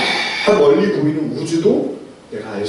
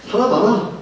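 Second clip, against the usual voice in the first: higher, with a chuckle; laughing inner jab; 5 semitones higher than usual. Retold or imitated. Grown-up's private thought about the child, chuckling. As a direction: tease it through a laugh. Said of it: "속으로는".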